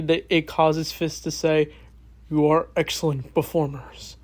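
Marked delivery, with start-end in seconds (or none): 2.3-4.2 a hint of a calm menacing crime boss; Kingpin voice. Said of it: "That's my Kingpin impression".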